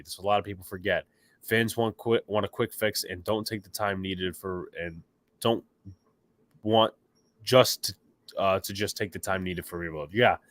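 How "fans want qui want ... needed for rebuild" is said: stumbling, restarting words mid-phrase; stuttering. Real, not acted. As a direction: trip over the words and restart. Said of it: "I was stuttering there".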